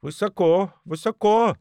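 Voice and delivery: high cackling hen voices; fussing hens; clucking hens. A narrator's reading. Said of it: "кококали куры".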